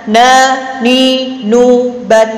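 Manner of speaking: "ban" with a medium N; half-held N. Shown as a demonstration. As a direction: sound the N of "ban" briefly between held and released. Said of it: "Maka bacanya".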